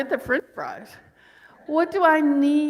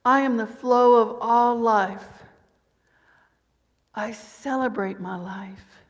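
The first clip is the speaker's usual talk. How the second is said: unhurried, measured affirmation; slow affirmation; 4 dB louder, slower than usual. Shown as a demonstration. Preacher repeating the affirmation slowly after a breath. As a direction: breathe into each word. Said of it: "Take a breath into that".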